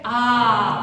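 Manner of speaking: a bright open ah; sung-out ah; ah response. Shown as a demonstration. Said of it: "if you hear good news".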